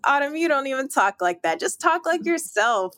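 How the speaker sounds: high-pitched self-scolding; self-scolding inner voice. Retold or imitated. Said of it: "It's like".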